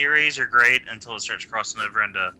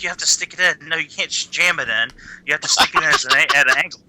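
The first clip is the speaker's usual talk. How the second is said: higher, impatient instructing voice; talking down to a confused customer; mimicking an impatient cashier; 5 semitones higher than usual. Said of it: "It's like".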